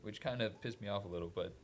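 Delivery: holding back hiccups; talking through hiccups; suppressing hiccups. Real, not acted. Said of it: "sorry, I have the hiccups".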